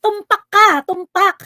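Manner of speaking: loud sarcastic cheer; mock praise. Host sarcastically congratulating commenter, loud and mocking. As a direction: cheer him on, dripping with irony.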